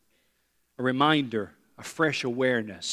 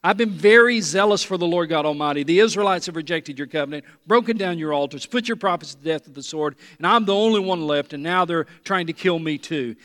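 Elijah venting again; 2 semitones higher, 5 dB louder than usual. Acted. Pastor repeats Elijah's second complaint, loud and aggrieved. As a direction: replay the prophet's rant with weary exasperation. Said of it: "here he goes again".

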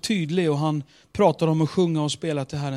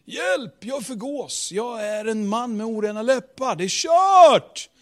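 panicked wail; 6 semitones higher, 3 dB louder than usual. Retold or imitated. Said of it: "för några sekunder sedan".

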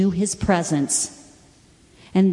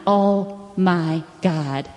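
retold weeping; much slower than usual. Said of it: "I just started weeping, crying, like".

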